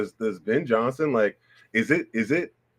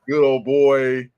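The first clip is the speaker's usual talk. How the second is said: put-on Southern good old boy accent; 4 dB louder, slower than usual. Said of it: "a kinda accent".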